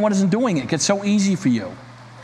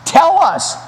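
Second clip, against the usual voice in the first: loud, high demand; 8 semitones higher, 6 dB louder than usual. Acted. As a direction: bark it out as an order. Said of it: "demanded a third".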